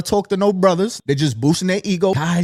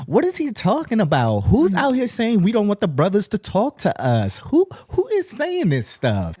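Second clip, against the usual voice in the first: mock offended lady; 4 semitones higher than usual. Voicing ladies watching him, indignant mock whine. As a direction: play an outraged woman. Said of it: "you're like".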